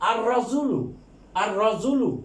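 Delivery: আর রজুলু with the lam silent, said arr-rajulu; sun letter demo. Shown as a demonstration. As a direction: demonstrate আর রজুলু by doubling the র and dropping the লাম. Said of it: "লামের উচ্চারণ হবে না". (আর রজুলু লাম বাদ দিয়ে র দ্বিত্ব করে উচ্চারণ)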